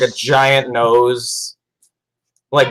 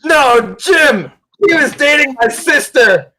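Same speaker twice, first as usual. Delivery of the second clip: much higher, hammed-up distress; a hammed-up anguished cry over the fallen friend; mock dismay; 13 semitones higher, 4 dB louder than usual. Player acts grief-stricken gang member.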